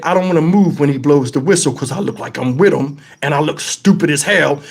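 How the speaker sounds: low, muttered inner thought. Retold or imitated. Keeping the thought to himself in the crowd, low inner voice. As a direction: think it to yourself under your breath. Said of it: "In my head, I said".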